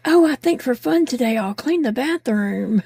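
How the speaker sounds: mock-cheerful sarcastic quote; chirpy, ironic pretend glee.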